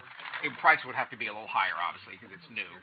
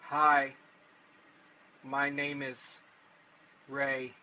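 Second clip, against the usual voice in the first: halting, mock-awkward self-introduction; terrible seller demo; much slower than usual. Shown as a demonstration. Demonstrating the terrible album seller to viewers, mock-awkward. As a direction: leave dead air between each phrase. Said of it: "give you the full terrible experience".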